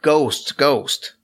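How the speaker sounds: mild mock yell, each word separate; lightly imitated scream of alarm; retold screaming. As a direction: imitate panicked cries with only a little lift. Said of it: "people started running out of the building screaming".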